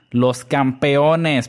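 drawn-out, excited cheer for the champions; emocionado. Real, not acted. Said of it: "es que me emociono". (emocionado, alargando las palabras)

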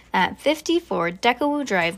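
plain reading voice

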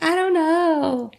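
put-on high, slow little-girl "I don't know"; imitating sad daughter. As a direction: mimic the daughter's small shrug of a voice. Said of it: "And she's like".

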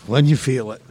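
low, deadpan cue, imitated; Dice. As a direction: drop the pitch right down, imitating his cool command. Dice quietly cueing the performance.

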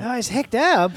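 high mock Welsh accent; hammed-up Welsh accent. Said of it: "someone, like, Wales would say".

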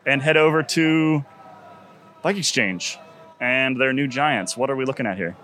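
speaking through a face mask; muffled through a mask. Real, not acted. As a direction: talk muffled behind a mask. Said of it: "we're gonna sound a bit muffled".

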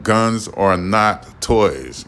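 very slow, deliberate alien-to-earthlings voice; talk like an alien. Shown as a demonstration. Vlogger addressing the people of Earth, in a slow mock alien voice. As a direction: spell out "Guns are not toys." word by word like a visiting alien. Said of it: "I'm gonna have to talk like an alien".

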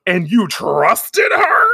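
slow, loud, outraged disbelief. Retold or imitated. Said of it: "she's like".

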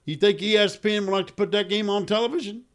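high, loud Texas caller; Texas accent. Retold or imitated. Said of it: "I'm doing a Texas accent".

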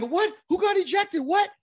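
high, incredulous "what?"; mock disbelief. Coaches running out, mock high-pitched disbelief. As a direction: play the stunned coaches shouting from the dugout.

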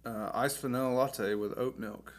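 talking between sips of coffee; while sipping a drink. Real, not acted. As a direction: sip an iced latte while speaking. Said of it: "So you might hear me sipping on this".

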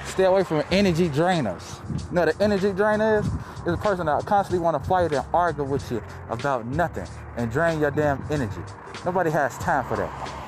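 talking through a face mask; muffled behind a mask. Real, not acted. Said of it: "If I sound a little muffled".

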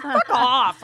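retold angry retort. Retort to unwanted advice.

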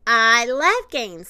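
loud, drawn-out enthusiasm; delighted. A narrator's reading. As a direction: relish it, stretching the words. Puppy delighted at a game.

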